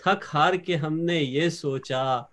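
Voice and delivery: slow, drawn-out verse delivery; Urdu poetry recitation. Acted. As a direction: recite the couplet line by line to an audience. Poet repeats the couplet.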